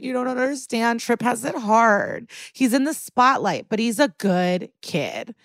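a light imitation of a defensive rich mom; classic mom. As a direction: plead like a doting mother defending her son. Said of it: "the mom does classic mom stuff".

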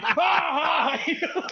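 loud, high mock laugh; imitated boss's guffaw. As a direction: burst into a big put-on cackle. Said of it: "Vince starts laughing".

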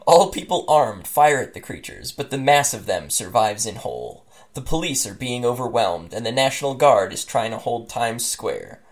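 measured, dramatic read-aloud; story narration. A narrator's reading. Host reading the game's opening to co-hosts, dramatic story narration. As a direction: narrate it with deliberate pauses and falling endings.

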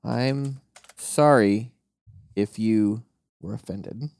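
slow, insincere sorry; fake apology. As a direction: say sorry without meaning it. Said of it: "is an apology forthcoming".

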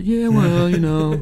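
playing it cool. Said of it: "I played it all cool".

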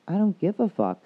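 the husband snaps back at his wife's sweet talk; angry retort. Retold or imitated.

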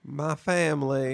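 mock Southern accent, drawn out slowly; slow put-on Southern drawl; Brian Kelly. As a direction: lightly imitate a fake Southern accent. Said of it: "in a Brian Kelly accent".

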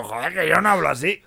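protesting in thick Castilian; exaggerated Spanish accent. Spaniard protests to teasing family, exaggerated Spanish accent. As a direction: object in an overdone Spain-Spanish accent. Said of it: "mi acento español".

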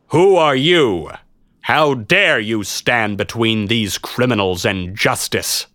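slow, imperious challenge; indignant knight. A narrator's reading. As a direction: demand an answer from the intruder, slowly. Knight challenges the intruder before crowd.

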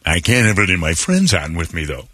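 imitating a very old man; quavery old man impression; Dick Van Dyke. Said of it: "His old man voice is so disturbing".

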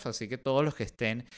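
ordinary delivery

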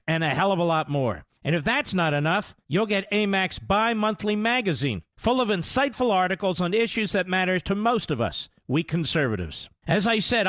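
steady, upbeat sponsor read into the mic. Acted. Host to listeners, reading the sponsor ad, upbeat pitch. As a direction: sell the membership like a live radio spot.

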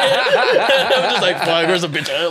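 laughing. Retold or imitated. Horny at 2am, laughing.

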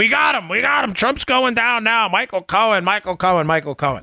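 high mock celebration, easing down by the end; mocking triumphant crowing; gloating liberal. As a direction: chant it like a giddy partisan. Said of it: "celebrated by liberals with Trump derangement syndrome".

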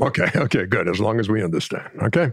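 imitation of a mollified coach; lightly voiced insistent analyst; Hubie Brown. Shown as a demonstration. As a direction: concede briskly, ending on a rising okay. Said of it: "you'd be go".

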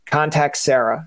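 slow, even commercial read of Contact Sarah; unhurried, inviting ad voice; friendly ad line. Retold or imitated. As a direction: say Contact Sarah like a calm tourism ad. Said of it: "our commercials is like".

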